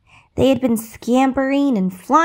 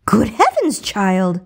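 amused; slower than usual. Acted. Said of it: "laughed the fairy godmother".

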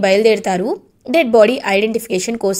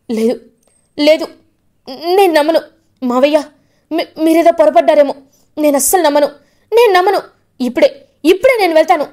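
desperate denial; 5 semitones higher, faster than usual. Acted. Vasudhara refusing to accept Rishi's death, high desperate denial. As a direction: refuse to believe it, pushing back hard.

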